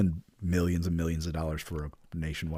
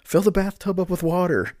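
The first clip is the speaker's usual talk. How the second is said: mock panic; 10 semitones higher, 5 dB louder than usual. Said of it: "they're just like".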